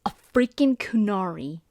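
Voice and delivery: whisper. Retold or imitated. Whispered shocked quote.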